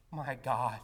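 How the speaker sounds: swelling to a loud cry on the second my God; anguished cry. Retold or imitated. Jesus on the cross crying out to God, anguished and loud. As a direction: cry out in abandonment, then let it sink. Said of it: "Jesus cried out".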